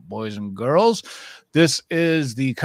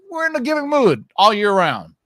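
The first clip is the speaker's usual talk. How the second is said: high sing-song; 9 semitones higher, 8 dB louder than usual. Acted. Jokey sing-song giving boast.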